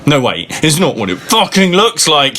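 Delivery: hammed-up desperate denial; mock shout. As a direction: beg her to wait, caught in the act. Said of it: "he shouted".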